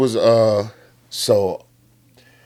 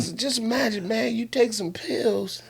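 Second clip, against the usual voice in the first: hushed setup; 8 semitones higher, 8 dB quieter than usual. Acted. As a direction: lean in and whisper the setup. Setting up a dark joke.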